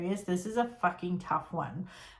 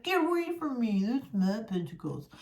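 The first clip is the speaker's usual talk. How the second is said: possessive hoarder. Retold or imitated. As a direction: lightly act a clingy man guarding his stuff. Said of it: "He'd be like".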